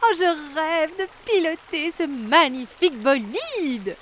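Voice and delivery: high, slow, gushing swan voice; swan Bianca exclaiming. A narrator's reading. Swan Bianca begging duck to pilot his boat, high pleading gush. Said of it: "s'exclame le cygne Bianca".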